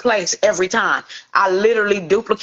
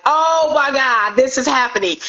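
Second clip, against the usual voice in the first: retold amazement; 5 semitones higher than usual. Hairstylist watches Paisley Park gates open, amazed. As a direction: stretch the opening words in raised-pitch awe.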